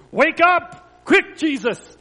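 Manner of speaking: loud, high urgent acted shout; screamed plea. A narrator's reading. Friends waking Jesus in the storm, screamed plea. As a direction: shout to rouse a sleeper in a storm. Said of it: "they screamed".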